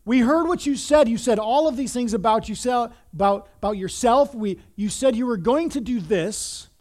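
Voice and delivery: pushy, mocking challenge; mocking yell. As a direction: jeer at him like one of a crowd. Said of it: "they're yelling, they're mocking him".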